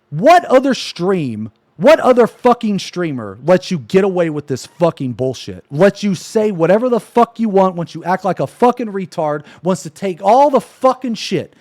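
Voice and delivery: really pissed off. Real, not acted. Streamer challenging his chat over what he lets slide, pissed off. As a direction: demand answers, pitch jumping up in real anger. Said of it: "I haven't actually been this fucking pissed off".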